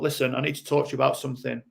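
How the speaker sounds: rational adult. Shown as a demonstration. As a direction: talk it through gently as a level-headed adult. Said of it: "rational adult".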